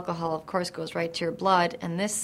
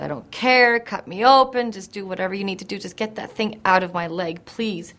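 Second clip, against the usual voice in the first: mild retold pleading; 2 semitones higher, 4 dB louder than usual. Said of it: "I started screaming and crying".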